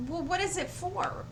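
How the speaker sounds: high-pitched baffled asking; retold incredulous question. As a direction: demand an explanation, voice up high. Wife questioning the costume.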